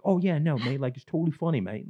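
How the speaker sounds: breezy British bro voice; British accent. Retold or imitated. British friend shrugging off the pranks, in a high mock British accent. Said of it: "he was like".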